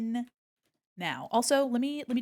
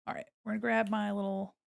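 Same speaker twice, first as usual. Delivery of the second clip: ordinary talk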